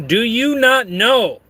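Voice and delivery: high, deliberate mock threat; Dandy. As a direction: read it out as a theatrical menace. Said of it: "says Dandy to Kevin".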